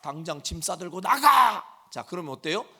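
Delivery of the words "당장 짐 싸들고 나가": louder, cut-off scolding shout; mother ordering the child out, loud; mom's yell. Retold or imitated. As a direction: bark it as the bare command. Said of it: "그 단어만 딱 잘라서 얘기하면".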